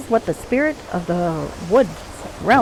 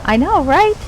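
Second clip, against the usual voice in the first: high, excitable pixie; 7 semitones higher than usual. Acted. Player joking about murder for rhyming crimes, high pixie voice. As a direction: agree eagerly in a high pixie voice. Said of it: "pixie voice when I'm not in character".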